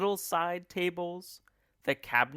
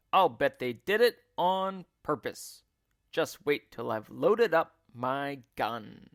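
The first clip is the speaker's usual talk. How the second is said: put-on angry old man; 4 dB louder than usual. Mister Twit voiced.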